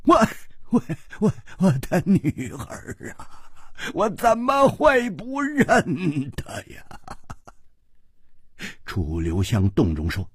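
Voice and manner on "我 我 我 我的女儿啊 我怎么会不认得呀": angry. Acted. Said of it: "龟兹王怒道".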